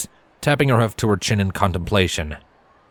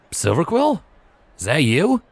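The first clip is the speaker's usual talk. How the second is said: higher stallion voice calling out; 6 semitones higher than usual. Acted. Stranger calling to Silver from behind, higher.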